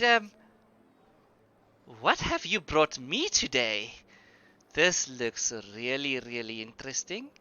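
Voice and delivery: a hint of the innkeeper's accent, sweet and welcoming; tavern keeper Hannah's accent. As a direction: greet an old friend in a put-on tavern keeper voice. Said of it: "let me get this accent again".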